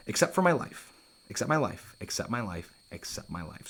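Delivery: fading echo. Shown as a demonstration. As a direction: let the phrase die away like an echo. Echoing Hamlet's phrase, dying away.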